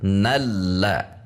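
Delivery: "nalla" joined, na running straight into the l; langsung masuk lam. Shown as a demonstration. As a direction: link na directly into the doubled l of "nalla". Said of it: "langsung masuk ke huruf lam". ("nalla" disambung langsung ke lam)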